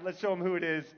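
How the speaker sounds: ordinary talk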